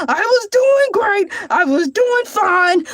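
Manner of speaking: playful wounded pride; mock exasperation. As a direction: protest as if deeply wronged. Exasperated self-defence.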